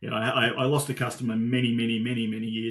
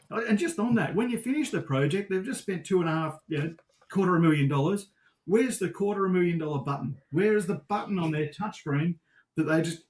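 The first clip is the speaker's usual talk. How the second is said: rising, higher-pitched excitement that keeps building; getting worked up; 5 semitones higher than usual. Real, not acted. Guest ranting to host about the client's button, worked up. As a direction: get carried away, voice climbing higher. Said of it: "I'm getting worked up".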